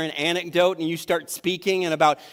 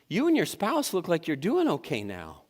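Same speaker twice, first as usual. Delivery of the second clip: backhanded compliment; 3 dB quieter than usual. Shown as a demonstration. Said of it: "This is a compliment".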